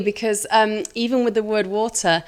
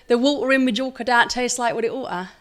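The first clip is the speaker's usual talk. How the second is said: put-on Cockney accent. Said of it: "Cockney rhyming slang".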